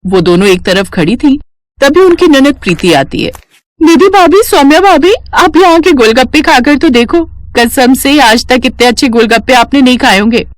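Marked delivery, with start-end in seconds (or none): 3.8-10.4 eager sister-in-law. Acted. Sister-in-law urging her bhabhis to try golgappe, eager and higher. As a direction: coax the bhabhis brightly.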